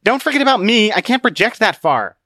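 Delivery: high, loud yell after someone leaving; calling out. A narrator's reading. Book to Conscience running down the hill, yelling. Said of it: "Book yelled".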